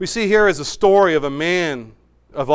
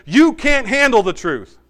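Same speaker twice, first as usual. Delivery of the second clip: a touch of a famous movie line, raised a little and punched; hammed-up movie villain snapping the line; movie quote joke; 8 semitones higher, 5 dB louder than usual. Preacher jokingly misquoting Joshua to the people, a hint of mock movie drama. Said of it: "No, he doesn't say that".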